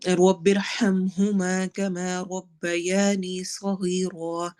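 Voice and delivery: slow, drawn-out recitation of the dua; slow Quranic recitation. Shown as a demonstration. Teacher recites the dua for the class, slow and measured. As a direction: recite it slowly and evenly, stretching the vowels.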